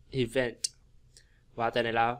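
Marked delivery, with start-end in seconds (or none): 0.1-0.6 "Event" with weight on VENT; light start on "Event", land on VENT; teacher's model, i-VENT; second-syllable stress. Shown as a demonstration. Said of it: "âm nhấn vào âm thứ hai".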